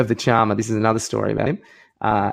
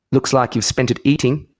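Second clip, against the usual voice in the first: a hint of Lethal Weapon villain accent; movie-villain accent; 2 semitones higher than usual. Cullinan answering Warnie's sledge, light villain accent. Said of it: "He's in Lethal Weapon two, it sounded like".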